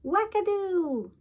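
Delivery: high, loud delighted cry; impressed gasp of delight. A narrator's reading. Mom impressed by Dad's trick, high delighted cry. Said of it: "Mom gasps".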